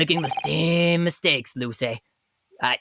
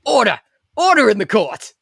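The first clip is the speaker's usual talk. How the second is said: stern judge shouting; 4 semitones higher, 7 dB louder than usual. Acted. Judge calls for order.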